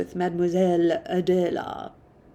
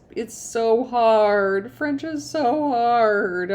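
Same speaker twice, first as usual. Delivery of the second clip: frustrated whine; 3 semitones higher, 4 dB louder, much slower than usual. Real, not acted. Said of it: "I sound terrible".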